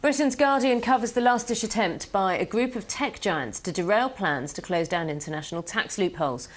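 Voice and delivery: measured newsreader delivery; news read. Real, not acted. Anchor to world news viewers with the top stories, news read.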